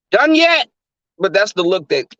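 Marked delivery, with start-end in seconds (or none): 0.1-0.7 impatient blurt. Retold or imitated. Impatient joke during sex.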